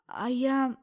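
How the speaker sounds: loud startled question; sudden exclamation. Acted. Girl suddenly realising she may be pregnant, alarmed cry. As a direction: blurt it out in alarm. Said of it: "вдруг воскликнула".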